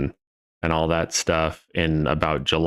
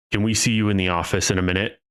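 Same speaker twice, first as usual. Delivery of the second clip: deadpan; faster than usual. Retold or imitated.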